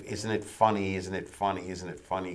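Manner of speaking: mocking a cast that plays for laughs; lightly hammed-up self-aware mugging; mock winking comedy. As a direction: nudge the audience each time, fading. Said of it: "piling on this sort of".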